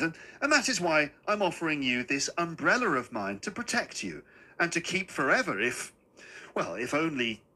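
a hint of a polite old man making his pitch; little old man, ingratiating. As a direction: offer it hesitantly and courteously. Little man offers his umbrella.

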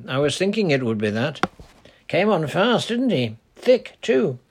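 put-on easy, friendly old dialect voice; lightly voiced old charcoal burner greeting a girl. Old man talks to Titty.

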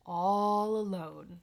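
slow, drawn-out spooky whisper; eerie whisper. A narrator's reading. Host reading of the witch's solitude, eerie whisper. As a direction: stretch it out in a hush.

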